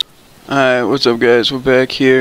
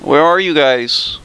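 higher squeaky put-on voice; 6 semitones higher, 5 dB quieter than usual. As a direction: pitch it up into a silly squeak. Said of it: "I'm gonna go with the squeaky voice".

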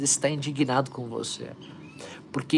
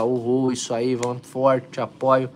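mock cheering; 6 dB louder than usual. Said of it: "Queria te falar, aplaudir você".

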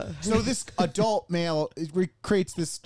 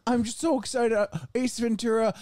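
put-on higher-pitched, lightly eager kid; excited child; 6 semitones higher than usual. Imagining a child putting out a video, mock excited. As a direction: imitate a child bubbling over about the movie.

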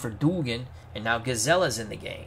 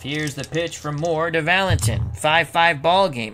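live play-by-play; 3 semitones higher, 7 dB louder than usual. Pretend. Announces the pitch like a broadcaster.

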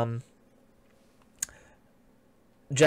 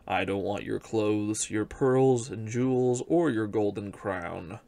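low, gentle frog voice calling up from the well; 3 semitones lower than usual. Acted. Frog at the well comforting the crying princess, low frog voice. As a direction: voice the frog, pitched low and kind. Frog states his terms.

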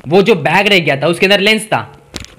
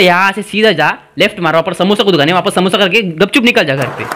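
mock dismissal; 3 semitones higher than usual. Uncle dismisses the haggler.

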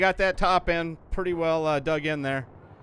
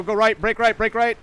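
loud, higher pitched command; urgent callout; 5 semitones higher, 4 dB louder than usual. Real, not acted. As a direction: bark the direction at your teammate. Calling out direction in combat.

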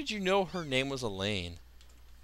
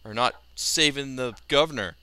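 loud taunting; 4 dB louder than usual. Real, not acted. Scolding useless pirates.

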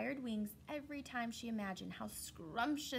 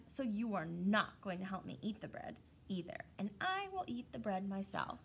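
scolding hen. Acted. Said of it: "hen scolds animals".

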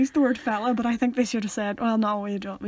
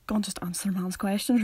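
Hastings; 6 semitones lower, 6 dB quieter than usual. Acted. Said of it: "Hastings could have outright just been like".

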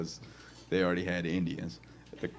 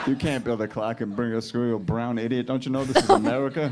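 raised-pitch comic rant; mock scolding; 3 semitones higher, 5 dB louder than usual. Comic scolding a kid who brought a clock to school, mock exasperation. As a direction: tell him off with rising exasperation.

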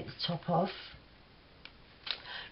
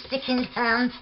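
laughing; 4 semitones higher than usual. Real, not acted. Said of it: "look at me trying to talk with my tongue out".

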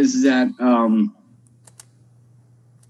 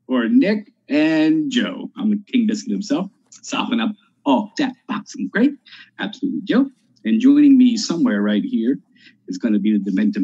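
show announcer intro. Acted. Host introducing himself and co-host to listeners, announcer style. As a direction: announce the show with stretched-out names.

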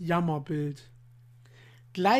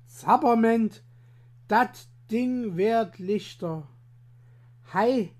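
astonished farmer; 2 semitones higher, 3 dB louder, slower than usual. Acted. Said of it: "verwundert steht und spricht er".

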